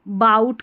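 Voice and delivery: 'बाउट' with an OW diphthong; wrong reading. Shown as a demonstration. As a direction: show misread बाउट, rhyming with out. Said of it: "नहीं". ('बाउट', आउ वाला गलत उच्चारण)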